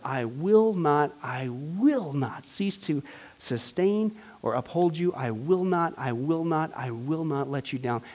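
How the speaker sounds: soft and slow, almost hushed; soft promise. Shown as a demonstration. Teacher repeating God's promise tenderly to the class, soft and slow. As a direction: let each I will not settle gently. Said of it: "I'm telling you".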